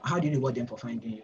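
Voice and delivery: fast, brisk rephrasing; quick repeat. Shown as a demonstration. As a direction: rattle the question off quickly. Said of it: "how do I explain this?".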